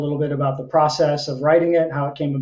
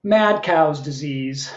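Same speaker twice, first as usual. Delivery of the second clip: slow title announcement; slower than usual. Acted. Poet announcing the opening poem's title, slow and final. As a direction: announce MAD COW'S DISEASE slowly as a title.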